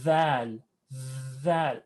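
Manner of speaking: dhal with the tongue out, buzzing; tongue sticking out. Shown as a demonstration. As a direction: say "dhal" with the tongue between the teeth. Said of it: "Notice my tongue is out".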